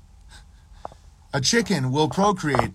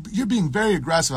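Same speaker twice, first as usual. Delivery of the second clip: high, quick put-on whine; mock complaint; 6 semitones higher, faster than usual. Slaves objecting to their captor, mocked high complaint.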